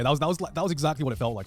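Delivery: ordinary delivery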